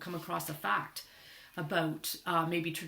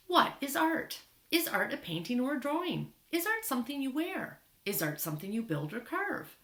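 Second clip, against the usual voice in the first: put-on reading to children. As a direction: read an information book out to young listeners. Reads book aloud to children.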